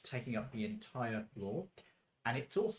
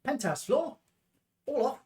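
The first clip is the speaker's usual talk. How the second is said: high, loud sing-song announcement; elevator operator call; 13 semitones higher, 9 dB louder than usual. Acted. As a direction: announce the last stop with a flourish.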